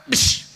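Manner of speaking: short "bish" impact noise; imitated elbow thud. Teacher telling how he elbowed a pupil's belly, imitated thud. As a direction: mimic the blow with a quick hushing burst. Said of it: "saya sikut perutnya".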